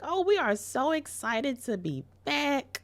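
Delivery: high, loud, slow excited gush. Acted. Couple rushing home, voiced high and excited.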